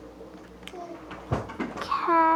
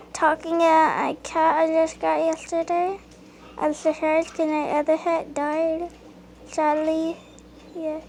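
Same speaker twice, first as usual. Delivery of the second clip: lips held still, ventriloquist style; talking with mouth closed. Shown as a demonstration. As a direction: speak without moving your lips. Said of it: "talk without moving my lips".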